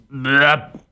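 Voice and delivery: imitated parrot burp; loud burp. A narrator's reading. Parrot burps after lemonade, imitated burp. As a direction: let out a comic burp. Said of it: "machte erneut ein lautes".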